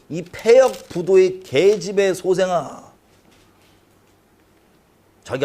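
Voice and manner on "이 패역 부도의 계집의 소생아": slow, weighty scolding; angry curse. Acted. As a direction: drag the curse out in anger. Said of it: "사울이 요나단에게 노를 바라고".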